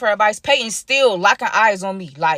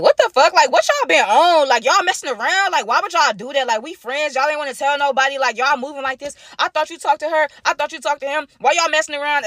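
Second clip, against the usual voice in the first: friends yelling; 5 semitones higher than usual. Retold or imitated. Friends confronting them at brunch.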